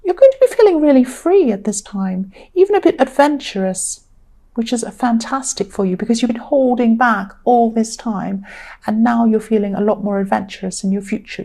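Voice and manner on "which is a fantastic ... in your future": tired, croaky voice. Real, not acted. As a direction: speak through a tired, croaky throat. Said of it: "Excuse my croaky voice".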